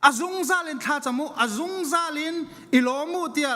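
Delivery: ordinary delivery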